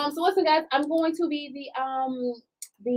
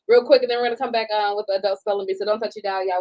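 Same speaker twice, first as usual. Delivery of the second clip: fast, upbeat DJ patter; radio host sign-off. Acted. Hosts a radio-style show sign-off.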